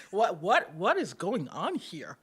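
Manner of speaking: laughing, mock-baffled recollection; retold shock. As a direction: act out being taken aback, amused. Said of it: "it was a full body reaction".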